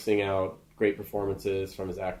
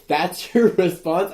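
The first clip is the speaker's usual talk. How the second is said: higher, slower, disbelieving; incredulous; 6 semitones higher, 6 dB louder, slower than usual. Retold or imitated. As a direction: stretch it out in disbelief. Incredulous at reporter's reply.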